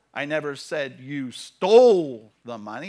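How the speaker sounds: "stole" stretched long and loud; stress on STOLE. Shown as a demonstration. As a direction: land heavily on the word "stole". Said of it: "depending on what word you emphasize".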